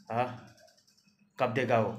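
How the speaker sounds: furious creditor yelling for payment; angry shout. Acted. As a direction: shout at her over the debt. Thakur demands his money back.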